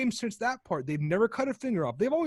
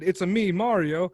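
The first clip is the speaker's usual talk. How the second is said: Mario voice; 3 dB louder than usual. Retold or imitated. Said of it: "so he's like".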